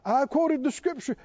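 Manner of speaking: mock self-righteous claim; stubborn insistence. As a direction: parody a stubborn believer sure they're right. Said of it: "so, you know, stubborn about".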